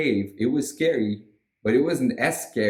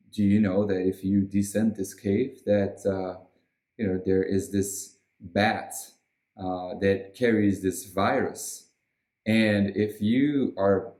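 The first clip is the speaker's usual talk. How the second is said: lightly voiced lecturing official, a touch low; Bill Gates; 3 semitones lower than usual. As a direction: mildly play a measured authority giving a warning. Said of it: "Bill Gates personally coming there and saying".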